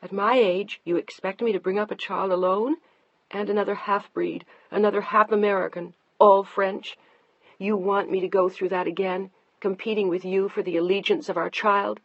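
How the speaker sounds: angry wife. Acted. Deanna fighting her husband over the baby, angry and loud. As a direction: hurl the questions back at him.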